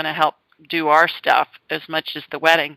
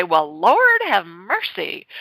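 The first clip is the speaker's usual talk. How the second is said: put-on Southern accent; slower than usual. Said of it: "Southern accent".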